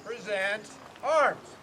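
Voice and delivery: barked drill command; parade command. Real, not acted. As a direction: call it like a drill sergeant. Color guard commands.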